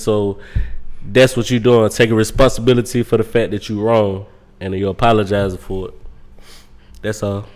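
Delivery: low, heavy man voice; deep voice. Real, not acted. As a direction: speak deep from the chest. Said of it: "Oh, that was bass coming out".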